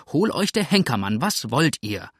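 cross, starts high then settles; vexed landlady's demand; really annoyed. Acted. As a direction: curse the caller in annoyance. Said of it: "jetzt wirklich ärgerlich".

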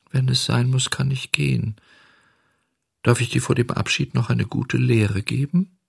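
a gentle, patient little cricket; small cricket voice. Acted. Cricket voiced high and soft.

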